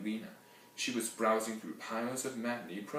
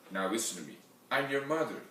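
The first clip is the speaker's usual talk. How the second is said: firm directing; 3 semitones higher, 4 dB louder, faster than usual. Acted. Grandma ordering her injured daughter, firm. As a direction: lay down the law as her mother. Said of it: "directed my grandma".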